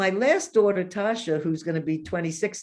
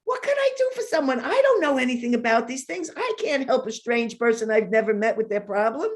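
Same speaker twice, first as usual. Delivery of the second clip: retold panic; 5 semitones higher than usual. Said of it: "and I'm saying".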